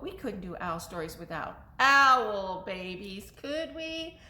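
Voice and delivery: usual speaking voice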